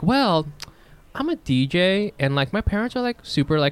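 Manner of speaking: mock Californian humblebrag; laid-back Californian. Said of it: "I don't know why I'm talking like that".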